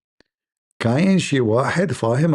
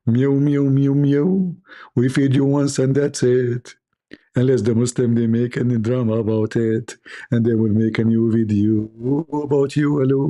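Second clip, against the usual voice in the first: hammed-up meowing delivery; meowing impression. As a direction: stretch the words out like meows. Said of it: "make a meow in the same time".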